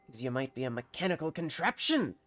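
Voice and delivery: put-on suspicious villager in a country accent; bad rustic accent. Villager checks a stranger for machinery, bad rustic accent. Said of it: "bear witness to my bad accent".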